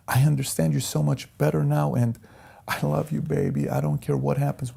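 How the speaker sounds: high, softened imitation of a wife; tender high-pitched quote of his wife; imitated loving wife. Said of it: "She says".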